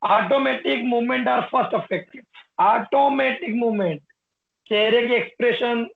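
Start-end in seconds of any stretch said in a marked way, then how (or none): 0.0-2.2 slow, deliberate reading; slow dictation. Shown as a demonstration. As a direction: dictate for notes. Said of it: "dictating notes".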